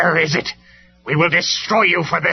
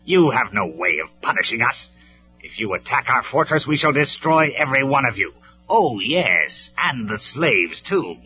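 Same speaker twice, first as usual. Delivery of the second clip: loud, contemptuous threats, rising higher; sneering villain; 6 semitones higher, 7 dB louder than usual. A narrator's reading. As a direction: gloat and threaten as an untouchable tyrant. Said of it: "Megatron sneered".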